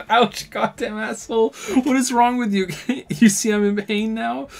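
high, loud pained outburst; hurt angry cop. Acted. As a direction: play the injured cop yelling. Cop character hurt by key.

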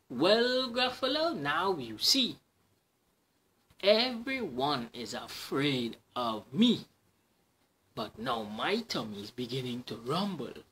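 a tiny creature bluffing big; menacing mouse. Acted. Mouse threatens Gruffalo.

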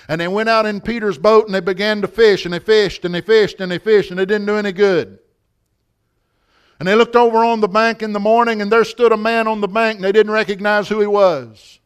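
lifted, rhythmic preacher's narration; preached storytelling. Real, not acted. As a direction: tell the Bible story with preaching drive.

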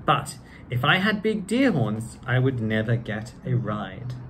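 lively storybook reading; reading to children. A narrator's reading. Actor reading Doctor Seuss to children in a lively voice. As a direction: read it out like story time for kids. Reads book aloud.

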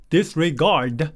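disregard drawn out syllable by syllable; disregard slowly. Shown as a demonstration. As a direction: say disregard very slowly, every sound clear. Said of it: "이렇게 발음해요".

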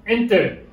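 "enter" stressed on the opening E; "enter" with its first syllable stressed, falling away. Shown as a demonstration. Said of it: "L'accent, c'est sur le E".

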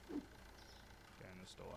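slow breathy whisper. Real, not acted. Streamer whispering to the boxes while stocking shelves, slow. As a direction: hush it out slowly under the breath.

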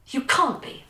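stammered. Acted. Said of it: "Vi stammered".

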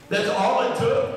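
mock-incredulous, rising question; sarcastic. Jesus teasing Nathanael over his quick belief, sarcastic. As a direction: tease with disbelief at how easy it was. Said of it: "Jesus is gonna be sarcastic here".

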